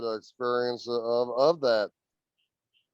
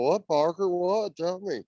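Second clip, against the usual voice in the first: higher-pitched, pressing for an answer; retold urgent questioning; 6 semitones higher than usual. Storyteller replays asking his serious-faced friend what's wrong, urgent questioning.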